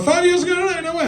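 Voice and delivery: mock surprise. Mock disbelief at Instagram memory.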